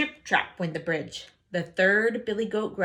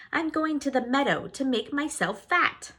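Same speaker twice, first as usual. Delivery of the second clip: tiny goat; 7 semitones higher than usual. Acted.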